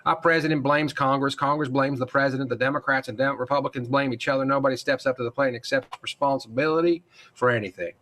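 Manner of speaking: a faint, badly faked Texas accent; terrible Texas accent. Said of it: "That was a terrible Texas accent".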